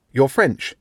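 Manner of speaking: awkwardly. Acted. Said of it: "rather awkwardly".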